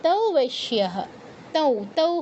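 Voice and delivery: "তৌ" ending in nasal oo; nasal u sound. Shown as a demonstration. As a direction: demonstrate "তৌ" with anusvara sounded as u. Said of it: "তাহলে উ এর মতো sound".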